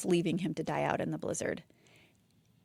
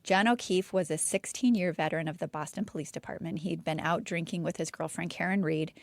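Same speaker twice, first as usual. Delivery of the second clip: lightly dramatic story narration; storytelling voice. Shown as a demonstration. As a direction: tell it like a campfire tale. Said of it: "Get my storytelling voice on".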